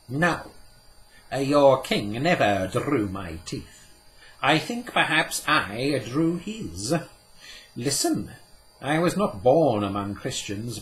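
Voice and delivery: put-on exiled sage telling the children his story; Cadmiel, a touch bitter. Cadmiel's long speech.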